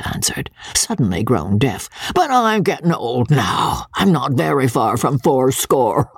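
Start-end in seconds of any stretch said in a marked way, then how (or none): 2.1-6.1 put-on old country lord greeting guests with a cackle; coarse old baronet. Old baronet teasing his son's wife, leering. Voices old Sir Pitt.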